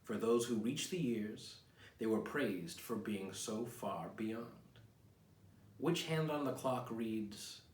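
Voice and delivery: slow, reflective poetry reading; poem reading. Acted. Reads his own poem aloud.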